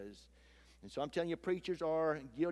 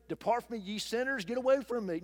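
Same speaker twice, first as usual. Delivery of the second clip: higher, slightly louder, a hammed-up condemning voice; mock rebuke; 5 semitones higher, 3 dB louder than usual. Congregation member mock-shunning a confessed sinner, hammed up. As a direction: play a scandalized churchgoer backing away. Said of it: "You know what they're gonna say?".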